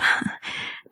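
small whispered chuckle; breathy laugh. Acted. Flirting with the lover, breathy laugh.

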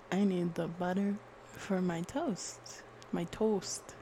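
put-on lightly done Canadian accent; casual mock Canadian. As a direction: try a Canadian accent, tagged with an "eh". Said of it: "That's kinda Canada".

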